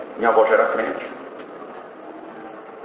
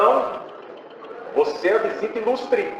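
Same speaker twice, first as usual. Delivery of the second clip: high, stretched-out retold welcome; insistent welcome; 9 semitones higher, 4 dB quieter, slower than usual. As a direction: insist high and slow, honouring a special guest. Porter insists he is the guest.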